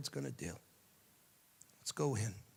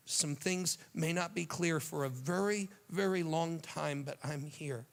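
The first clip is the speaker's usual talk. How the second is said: tender comfort; 3 semitones higher than usual. Acted. Jesus comforting a frightened believer.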